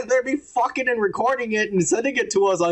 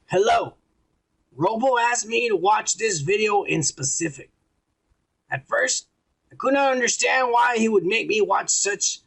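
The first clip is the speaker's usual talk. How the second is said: reading a letter aloud. Real, not acted. Reads a listener's letter aloud.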